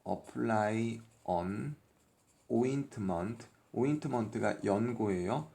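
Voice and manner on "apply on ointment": slow example. Shown as a demonstration. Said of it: "예를 들면".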